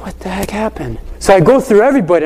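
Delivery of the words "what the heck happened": very soft, hushed question; retold private dismay, barely voiced; inner bewilderment. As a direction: ask yourself under your breath. Teacher's inner dismay after the lecture.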